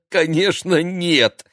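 short laugh, then high, loud words; laughing refusal. A narrator's reading. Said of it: "рассмеялся Игорь".

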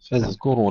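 فاذكروا with a voiced, unbounced dh; voiced dhal. Shown as a demonstration. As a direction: keep the dh in فاذكروا voiced and still. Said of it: "وعدم تحويلها إلى ثاء". (فاذكروا بذال مجهورة ساكنة)

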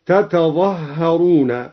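تتظهرون said slowly, both تاء sounds clear; original form. Shown as a demonstration. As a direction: spell it out as tatazahharun. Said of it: "لأن الأصل". (الأصل تتظهرون ببطء)

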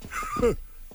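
high, brief exclaimed laugh; startled laugh. Acted. Father coming upon another young man, startled high laugh.

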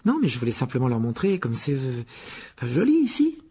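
hésitation qui monte dans l'aigu; balbutiement gêné. Acted. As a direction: chercher ses mots, mal à l'aise. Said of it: "balbutia Hermione". (balbutier avec embarras)

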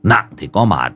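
low, fed-up grumble; understated exasperated uncle; weary dismay. Acted. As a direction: grumble to yourself, mildly appalled. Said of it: "ông Hải ngao ngán".

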